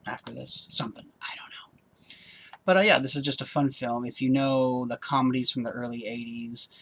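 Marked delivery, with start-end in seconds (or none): 0.1-2.2 whispering. Real, not acted. Trailing whispered aside.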